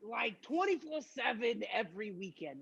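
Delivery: badly faked Bronx accent; swaggering, clumsy attempt at a Bronx accent; terrible Bronx accent. Host gives clues in guessing game, terrible Bronx accent. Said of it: "This is a terrible accent".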